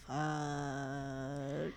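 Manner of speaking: muttered fuck. Retold or imitated. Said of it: "And I was like".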